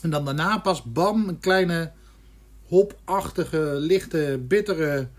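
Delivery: tasting with beer in mouth. Real, not acted. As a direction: talk with a sip still in mouth. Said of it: "terwijl ik hem in mijn mond heb".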